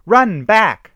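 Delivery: very high, very loud warning scream; shrieked. A narrator's reading. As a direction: scream at them to flee. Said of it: "shrieked Ashley".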